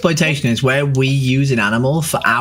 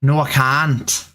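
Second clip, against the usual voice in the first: put-on Northern Irish lilt; Northern Irish impression, lightly sung; Northern Irish accent; slower than usual. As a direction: play it as someone from Northern Ireland. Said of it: "told to do a Northern Irish accent".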